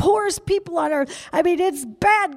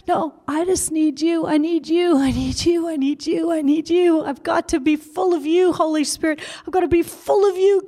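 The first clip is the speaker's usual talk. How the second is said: earnest prayer; 2 semitones higher than usual. Real, not acted. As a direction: pour it out, repeating I need you. Sincere prayer.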